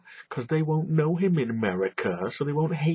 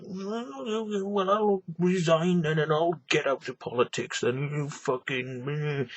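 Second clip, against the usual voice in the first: sulky Portillo; 4 semitones higher, slower than usual. Retold or imitated. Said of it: "And he was like".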